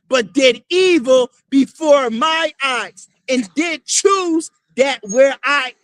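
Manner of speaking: slow, booming preacher's reading of scripture; scripture declaimed. Acted. Street preacher reads prophecy to the crowd, slow booming declamation. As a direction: proclaim each word like the prophet himself.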